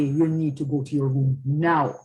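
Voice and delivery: calm, controlled parental order; demonstrating a no-nonsense instruction to a child; firm voice. Shown as a demonstration. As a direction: say it firmly without raising your voice. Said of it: "that's my firm voice".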